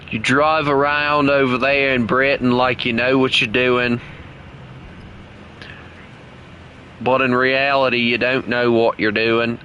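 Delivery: put-on Aussie accent, teasing a friend; Australian accent. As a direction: rib him in mock Australian. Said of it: "keep on talking in this, uh, this accent".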